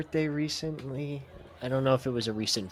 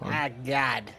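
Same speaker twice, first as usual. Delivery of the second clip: Ric Flair catchphrase. Retold or imitated. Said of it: "That's how he says it".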